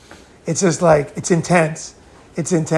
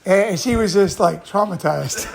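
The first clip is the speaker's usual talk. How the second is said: usual speaking voice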